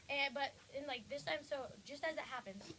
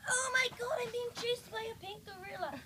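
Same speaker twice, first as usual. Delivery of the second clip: higher and louder, mock panic while fleeing; hammed-up frantic yelp of fear; panicked man; 8 semitones higher, 6 dB louder than usual. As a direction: cry it out, a man being chased. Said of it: "He's like".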